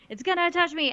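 a touch of high alarm; mock freak-out. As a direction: imitate someone starting to freak out. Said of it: "Monica's, like, freaking out".

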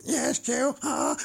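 high, slow robotic drone; Dalek-y robot voice. Pretend. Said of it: "I'm doing an impression of you, aren't I, J C three thousand?".

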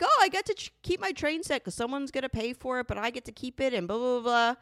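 hammed-up husband defending his toys; mock whiny husband. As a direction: whine it like a spoiled man-child excusing himself. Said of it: "And he's like".

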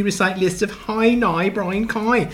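slow, drawn-out RP vowels; mock RP. Husband reads Rachel's recording story, slow mock RP. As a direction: recite it in exaggerated RP. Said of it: "My accent was model R P".

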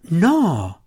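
a loud, high, startled No; sharp cry. Acted. Belwar cutting off the king with a loud, high protest. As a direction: burst out in sudden refusal.

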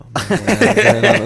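stretched out slowly through a laugh, high and loud. Real, not acted. Laughing at own joke.

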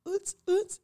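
high "oots, oots" like a bass thump; imitated club beat. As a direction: mimic pounding party music. Imitating club music in pool.

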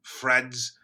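put-on grumpy old prospector in a Boston accent. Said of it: "Boston's hard".

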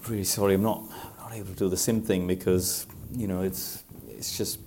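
soft, hesitant apology; meekly asking a favour, halting; sheepish. Retold or imitated. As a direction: retell a sheepish plea, faltering and quiet. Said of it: "very sheepishly had to walk back up".

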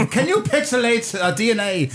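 faked Asian accent, breaking into laughter; badly put-on Asian accent, losing it; bad accent impression. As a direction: try a mock Asian accent while fighting laughter. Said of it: "I lost it at the end of that impression".

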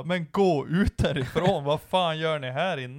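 slow, drawn-out command; mild mock outrage, stretched out; exasperated order. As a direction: imitate someone ordering intruders out. Retold Johannes ordering intruders out.

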